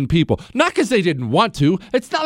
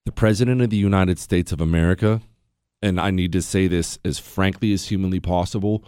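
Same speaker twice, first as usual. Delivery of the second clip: usual speaking voice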